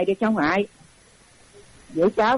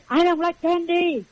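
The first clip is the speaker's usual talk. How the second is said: retold kid shout; 9 semitones higher, slower than usual. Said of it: "nó hét lớn lên".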